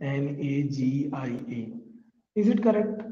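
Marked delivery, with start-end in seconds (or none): 0.1-1.6 slow letter-by-letter check of एन ए जी आई ए; checking spelling. Shown as a demonstration. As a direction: read the letters slowly while checking. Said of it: "हम देखते हैं सही है क्या". (धीरे-धीरे जाँचते हुए)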